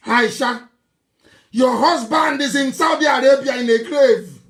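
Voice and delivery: loud scolding accusation; angry call-out. Real, not acted. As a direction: call her out loudly. Berating Aisha, calling out.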